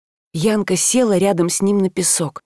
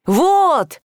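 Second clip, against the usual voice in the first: высоко, громко, резко; гаркнуть одно слово; крик; 7 semitones higher than usual. A narrator's reading. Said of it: "заорал Таль". (Таль орёт, перекрикивая прибой)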